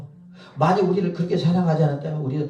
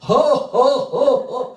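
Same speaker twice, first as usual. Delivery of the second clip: high, loud "huh, huh" laugh; imitated laugh; 11 semitones higher, 8 dB louder, much slower than usual. Preacher mimicking the missionary's laugh, loud high bursts. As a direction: mimic a big, punched-out laugh in separate bursts. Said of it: "그러면 웃음이 그러거든요".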